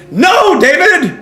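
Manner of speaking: high, drawn-out exasperated cry. Real, not acted. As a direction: call out the name in mock despair. Answering viewer's mock request.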